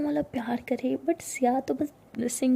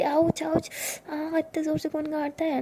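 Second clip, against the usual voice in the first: cry of pain; 3 semitones higher than usual. Acted. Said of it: "चीख निकलती है".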